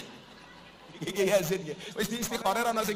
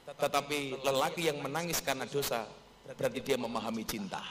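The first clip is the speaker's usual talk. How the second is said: poetic aphorism; 4 semitones lower, 4 dB quieter than usual. Acted. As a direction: deliver it like a romantic quote, lower and unhurried. Recites an aphorism on love. (kata mutiara puitis, pelan dan berjeda)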